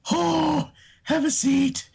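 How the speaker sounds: high giddy voice offering the seat; Bubbles voice. Retold or imitated. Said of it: "it sound like Bubbles from".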